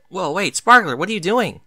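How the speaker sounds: being shoved out the door by her daughter; surprised cry. A narrator's reading. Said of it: "Derpy cried in surprise".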